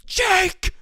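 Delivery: high, loud imitation of mom's call; mom yelling. Mom calling her son from bed, mom yelling. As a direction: holler the name from another room. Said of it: "I'll hear my mom go".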